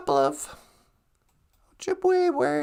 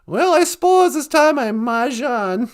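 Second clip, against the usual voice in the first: Cass Lake accent; 4 dB louder than usual. Shown as a demonstration. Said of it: "if you're from Cass Lake".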